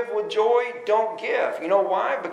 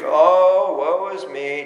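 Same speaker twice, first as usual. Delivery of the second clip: gloomy sighing donkey, lower; a sighed, lower "Oh, woe is me"; Eeyore voice; 4 semitones lower, much slower than usual. Retold or imitated. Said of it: "just like Igor, right?".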